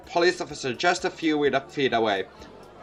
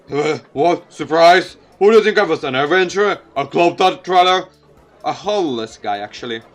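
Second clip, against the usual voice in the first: put-on teasing old hobo; 6 dB louder than usual.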